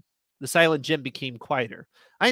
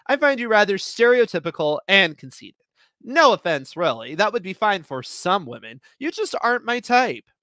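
cool putdown; 5 semitones higher, 5 dB louder than usual. Acted. Cutting rejection, high and loud.

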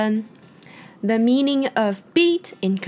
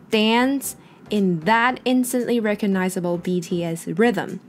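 slow, every word spelled out clearly; slow clear reading. Shown as a demonstration. Teacher slowly rereads the phrase for students, clear and slow. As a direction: read the phrase slowly for learners. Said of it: "All the people in the party是这个句子的主词".

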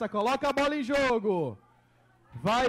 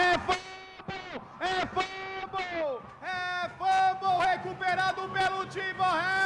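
excited fumble call; 3 semitones higher than usual. Real, not acted.

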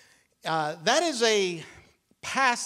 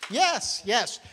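high, bright burst of approval; sudden excited yes, much higher; 3 semitones higher than usual. Real, not acted. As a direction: cheer the congregation on.

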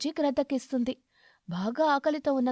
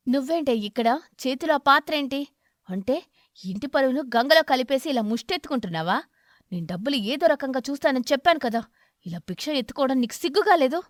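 louder, furious husband; angry scolding; 5 dB louder than usual. Acted. Crow berating his wife caught begging in the village. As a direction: scold her loudly in disgust. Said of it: "కాకికి చాలా కోపం వచ్చి".

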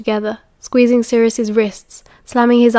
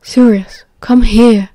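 raised-voice summons; loud, commanding call; 5 dB louder, slower than usual. A narrator's reading. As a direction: call him over, frustrated. Calling out in an empty flat.

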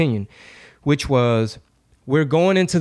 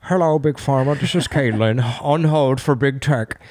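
Caitlyn Jenner. Retold or imitated. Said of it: "let's get Caitlyn on the line".

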